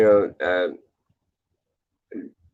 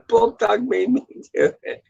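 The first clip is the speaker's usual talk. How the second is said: high mock voice; 11 semitones higher than usual. Repeats punchline in high voice.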